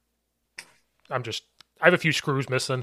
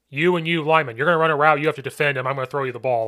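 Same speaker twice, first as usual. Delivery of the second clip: rally the linemen with raised voice; calling out plays; 3 semitones higher, 5 dB louder, faster than usual. Retold or imitated. Coach giving linemen a fun drill, calling it out.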